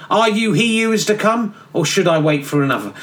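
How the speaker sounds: mocking high sing-song; mock-solemn question. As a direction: parody the pious question. John mocks the question.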